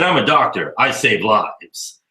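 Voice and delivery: very slow, self-important drawl; pompous doctor. Retold or imitated. Retelling a smug doctor at Starbucks, slow and pompous. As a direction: stretch each word out like a big shot. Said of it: "He said".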